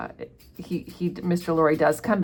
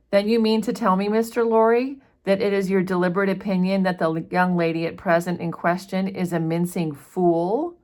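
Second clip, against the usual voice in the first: indignant retort; 2 semitones higher than usual. Acted. Stryver defensive, retorting angrily.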